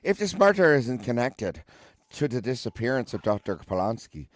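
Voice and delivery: put-on Irish accent. Shown as a demonstration. Watson reasons with Holmes, demonstrating an Irish accent. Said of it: "how you do an Irish accent".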